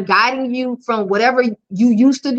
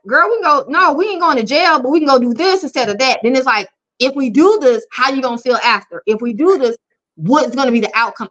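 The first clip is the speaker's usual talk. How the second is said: ratchet sister voice; 3 semitones higher than usual. Retold or imitated. Coaching a client from the ratchet side, sassy and blunt. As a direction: talk her down like a blunt sister. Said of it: "when that ratchet side comes out".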